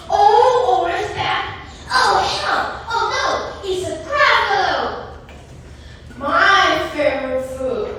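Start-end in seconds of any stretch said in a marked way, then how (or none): 1.9-4.8 high-pitched storybook panic; startled, higher exclamations; alarmed. Acted. Mouse suddenly meets the monster. 6.2-7.9 lightly voiced storybook monster; a hint of monster in the voice. A narrator's reading. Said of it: "the gruffalo said".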